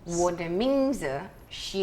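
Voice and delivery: "我的名字 是" slow and careful; learner repeating. Shown as a demonstration. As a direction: sound out "我的名字 是" slowly. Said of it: "then you put in your name".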